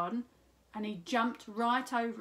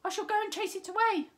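higher, louder bold boast; brave cat; 11 semitones higher, 6 dB louder than usual. A narrator's reading. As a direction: puff up and announce it.

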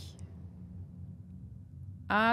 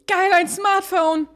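excited; 5 semitones higher, 6 dB louder, much slower than usual. Acted. Excited discovery, loud slow.

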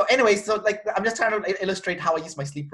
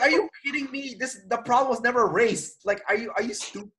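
higher, disbelieving mock rant; incredulous outburst; 5 semitones higher than usual. To the gym guy talking to others, incredulous. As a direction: let the disbelief spill out.

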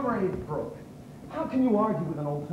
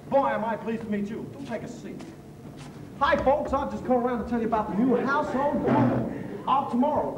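salesman pitch. Acted.

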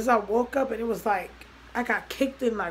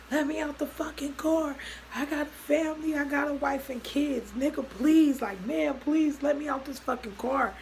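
imitated desperate plea; 6 semitones higher than usual. Man begs to get out of the car, retold desperate plea. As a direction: act out his panicked pleading to be let go. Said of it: "I hear screaming".

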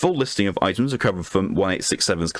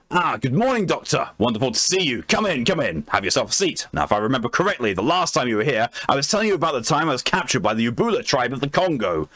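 hammed-up, higher-pitched old English gentleman; Lord Blackwood voice; 3 semitones higher than usual. Explorer Blackwood greets the doctor, pompous, higher voice. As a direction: play the jolly, boastful explorer welcoming a guest. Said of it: "I'm gonna have to do a voice for it".

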